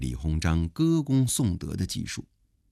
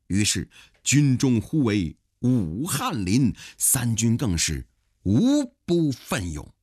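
emphatic storyteller's punchline with stretched words; pingshu storytelling; 3 semitones higher than usual. A narrator's reading. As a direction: round off the heroic tale like a storyteller. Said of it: "讲得跟评书似的". (评书腔，抑扬顿挫地收尾)

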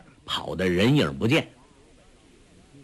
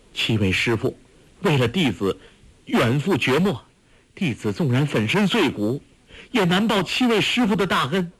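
a touch of tearful pleading, rising higher toward the end; tearful plea; 5 semitones higher than usual. A narrator's reading. Guo Jing kneeling before his master, tearful plea. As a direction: beg through tears, voice climbing. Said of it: "垂泪说".

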